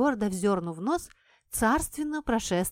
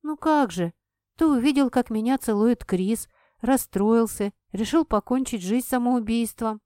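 flustered; 3 semitones higher, 4 dB louder than usual. Acted. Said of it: "сбивчиво проговорила".

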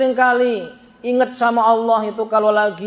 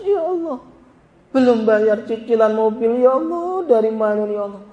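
mock tearful pleading. Debtor begging God at night prayer, mock tearful. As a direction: act out a broke man's plea, lightly. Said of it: "bisa nangis-nangis".

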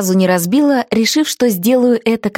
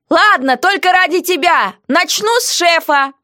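heroine's quoted voice, higher; defiant heroine; 9 semitones higher than usual. Acted.

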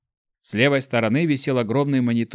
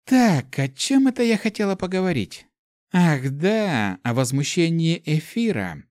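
put-on girl elemental voice; 5 semitones higher than usual.

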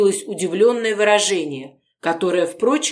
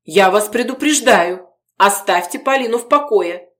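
louder, higher threat; warning; 4 semitones higher, 5 dB louder than usual. Acted. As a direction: warn her off firmly. Gorodetsky warning the visitor.

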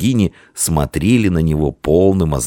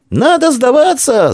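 high, loud, slowed wail on «Надо сдаваться!», stress on «надо»; wailing cry; 4 dB louder, slower than usual. A narrator's reading. Vtoryak wails to the defenders to surrender, loud high. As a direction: howl it in despair. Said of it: "завопил Вторяк".

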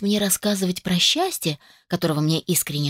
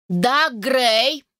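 higher, sharper call across the lawn; barked name; 5 semitones higher than usual. Acted. Mother calling out sharply to her son Dag. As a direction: snap his name out to stop him. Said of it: "рявкнула она".

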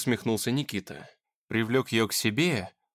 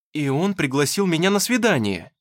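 excited, louder burst of news; exclaiming; 5 semitones higher, 5 dB louder than usual. A narrator's reading. Dasha telling Nikita about her date, excited exclaim. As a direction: blurt out the big news with joy. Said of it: "воскликнула она".

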